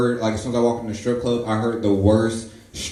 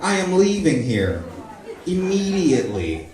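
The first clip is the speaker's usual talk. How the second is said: much higher, incredulous protest; appalled reaction; 9 semitones higher than usual. Retold or imitated. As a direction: recoil in disbelief. Horrified reaction to stripper name.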